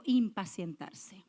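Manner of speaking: "impacientarse" said slowly, syllable by syllable; slow call-and-response "impacientarse"; drawn out for repeating. Shown as a demonstration. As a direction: give the congregation "impacientarse" to echo back. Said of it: "diga conmigo".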